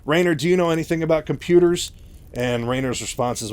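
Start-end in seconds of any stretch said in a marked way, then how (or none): 0.0-1.9 higher, louder, mock-flustered question; mild panic. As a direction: act out a brief moment of panic. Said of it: "just kinda panics for a second".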